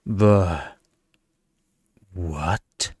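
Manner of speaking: baffled double take; surprised. A narrator's reading. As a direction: caught off guard, voice dropping. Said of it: "thrown off by the sudden shift".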